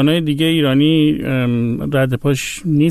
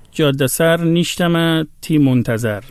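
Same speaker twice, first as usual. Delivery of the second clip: Gilaki verse in a Persian accent; slower than usual. Shown as a demonstration. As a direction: read the Gilaki line slowly with plain Persian intonation, no thick Gilaki accent. (شعر گیلکی با لحن فارسی، آهسته)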